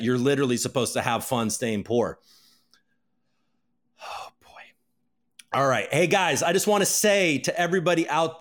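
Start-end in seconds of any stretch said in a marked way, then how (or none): none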